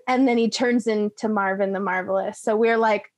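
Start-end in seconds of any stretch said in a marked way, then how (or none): none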